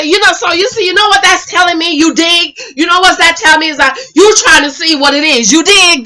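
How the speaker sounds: imitating a man's slangy patter; Hollywood. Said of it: "This how Hollywood talk".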